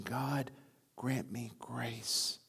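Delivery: soft, slow God, grant me grace; quiet prayer. Retold or imitated. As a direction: pray it under your breath.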